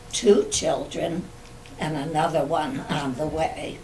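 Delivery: memoir reading. Acted. Reads written family memoir.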